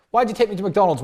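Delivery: date complaining. Retold or imitated.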